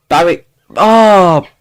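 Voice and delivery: hammed-up Birmingham accent; Brummie attempt. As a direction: have a drawn-out go at Brummie. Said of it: "I am not replicating that".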